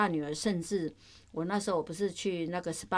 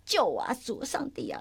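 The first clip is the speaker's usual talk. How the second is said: exasperated, higher-pitched mock plea to God; angry aside prayer; 5 semitones higher than usual. Mother turns aside begging God for help, mildly angry. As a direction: plead through held-in anger, without shouting. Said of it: "脸转到一边是很生气".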